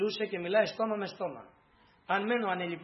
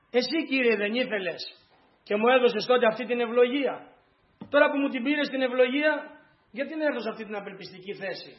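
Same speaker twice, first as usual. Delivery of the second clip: higher and louder, a grieving cry to God; anguished plea; 4 semitones higher, 4 dB louder than usual. Acted. Grieving mother cries out to God, anguished and louder. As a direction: pour out a mother's pain, voice rising.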